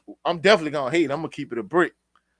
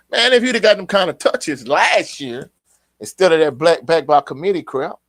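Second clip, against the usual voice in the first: heated rant; 4 semitones higher, 7 dB louder than usual. Real, not acted. Heated rant about last season.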